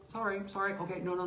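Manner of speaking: high-pitched, repetitive self-correction; mock flustered apology. Speaker caught slipping up by friends, mock flustered apology.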